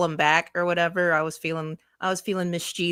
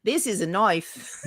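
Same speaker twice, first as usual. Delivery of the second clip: Crocodile Dundee quote; slower than usual. Pretend. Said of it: "Crocodile Dundee".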